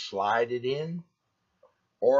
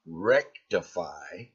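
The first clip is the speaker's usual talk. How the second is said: mocking quote; 6 semitones lower, slower than usual. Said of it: "there's that word again".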